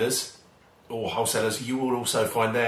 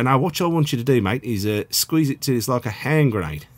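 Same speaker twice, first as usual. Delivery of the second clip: lightly put-on Australian accent; Aussie accent. Home cook mimics Aussies explaining the squeeze, playful Australian accent. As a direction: imitate an Aussie giving cooking directions. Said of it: "Sorry for the accent".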